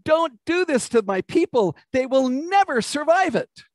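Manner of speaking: high-pitched, urgent plea, acted out; pleading. Amos begging God to spare his people, pleading. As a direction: beg on behalf of your people. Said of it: "Amos pleads to God".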